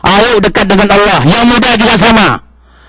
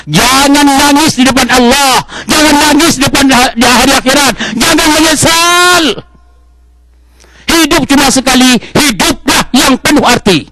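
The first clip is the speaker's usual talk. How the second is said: preaching shout; 6 semitones higher than usual. Real, not acted. Preacher warns the congregation, building to a shout. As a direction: drive the warning home, building to a shout.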